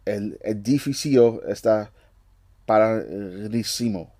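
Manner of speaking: slow, careful Spanish read; sounding out Spanish slowly; slow, unsure Spanish words; halting Spanish. Real, not acted. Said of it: "butchering all these words".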